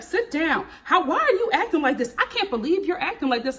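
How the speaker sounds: high, fast whiny mock of Brittany. Imitating Brittany scolding her man, high and fast. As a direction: throw her words back at her, high and rushed.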